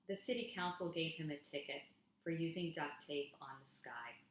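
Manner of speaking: gentle spoken-word delivery for an audience; poem reading. Acted. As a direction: read each image as if it's a small wonder. Reads her second poem aloud.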